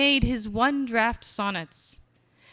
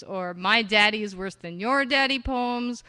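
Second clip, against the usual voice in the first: ordinary talk, nothing marked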